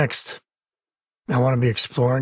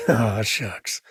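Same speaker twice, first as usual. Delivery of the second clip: bashful laugh. Acted. Laugh on line.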